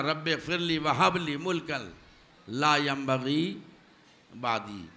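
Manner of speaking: Quranic recitation. Acted. Repeats the verse.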